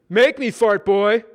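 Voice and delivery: slow, loud sneering jeer. Acted. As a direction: taunt him slowly. Scott sneering.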